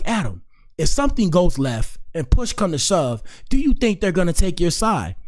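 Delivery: a hint of an exasperated father; mild mock scolding dad; imitating his dad. Dad voiced in retold story.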